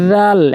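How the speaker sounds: রাল said very lightly, tongue tip to teeth; light ral. Shown as a demonstration. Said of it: "একদম হালকা করে".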